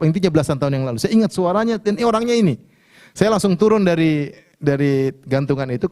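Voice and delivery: ordinary delivery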